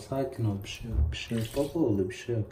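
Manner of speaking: low, soft calming murmur; soothing reassurance. Real, not acted. Owner calming a scared pet in the bath, soothing. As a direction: hush a nervous pet, voice dropping. Calming a nervous animal in water.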